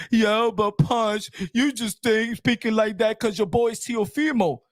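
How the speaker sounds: lightly voiced doubter, mocking them; imitating critics. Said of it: "Everybody be like".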